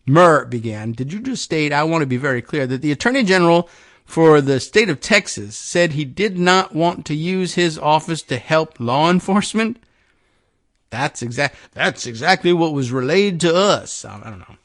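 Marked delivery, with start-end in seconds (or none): 0.9-9.8 lightly voiced Texan lawmaker; put-on Texan accent. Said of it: "I don't know how Texan their accents". 10.9-14.1 lightly mimicked Texan witness; botched Texan accent. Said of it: "I think I'm doing the wrong accent".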